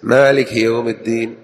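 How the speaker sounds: مالك ending in a short i; kasra on kaf. Shown as a demonstration. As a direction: say maliki for مالك. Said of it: "وليكسر في الكاف".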